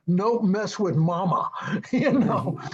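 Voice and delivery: tickled, breaking into a laugh; amused laughing. Real, not acted. Storyteller on Shaq's formidable mother, amused laughing. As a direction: laugh around the words.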